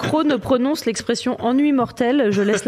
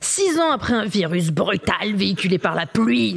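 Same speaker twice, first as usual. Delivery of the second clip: movie trailer voice. Shown as a demonstration. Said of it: "c'est ma meilleure voix de trailer".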